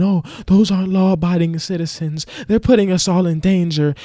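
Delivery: high-pitched prissy complainer; mock disapproval. Mimics complaining people on the road.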